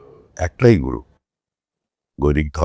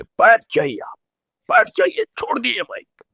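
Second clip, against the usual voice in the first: retold angry rebuke. Party leader rebuking a speaker for insulting the Prime Minister, retold anger. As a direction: re-enact an angry leader's reprimand, sharpest on the orders. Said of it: "প্রচণ্ড রেগে গিয়ে বললেন".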